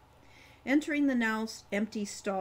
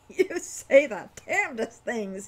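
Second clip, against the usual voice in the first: amused; 3 semitones higher, 8 dB louder than usual. A narrator's reading. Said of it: "still laughing".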